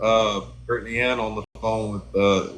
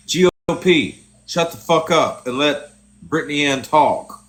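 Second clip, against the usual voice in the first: louder, higher mock yell telling him to hush; retold yell; 4 semitones higher, 6 dB louder than usual. Friend yelling at GOP to let Brittany Ann talk, loud mock yell. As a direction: bark it at him like a fed-up friend. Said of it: "So I'm like".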